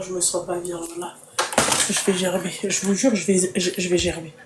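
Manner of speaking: queasy, about to throw up; nauseous. Real, not acted. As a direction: speak through rising nausea. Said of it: "c'est la nausée".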